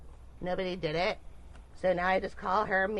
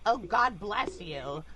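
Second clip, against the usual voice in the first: slow, sweet and pious; 3 dB louder, slower than usual. Pretend. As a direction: say it sweetly for others. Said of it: "say something really sweet out loud".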